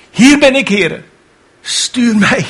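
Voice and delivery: high eager answer again; volunteer with fire. Retold or imitated. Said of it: "hief zijn hand op en zei".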